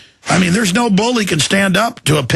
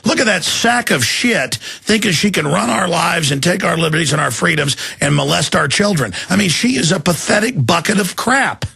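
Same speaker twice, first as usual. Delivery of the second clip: higher-pitched, heated tirade; real angry outburst; 4 semitones higher than usual. Real, not acted. Host rants to his guest about an official, angry outburst. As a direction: rant in real disgust at a public figure.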